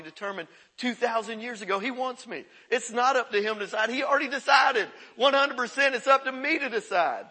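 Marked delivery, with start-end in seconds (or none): 2.7-7.2 rising to a loud preaching shout; emphatic shout. Real, not acted. Preacher shouting to the congregation, emphatic. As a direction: drive it home, louder and higher.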